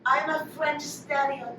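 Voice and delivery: put-on soft French stereotype accent. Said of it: "with an actual French accent".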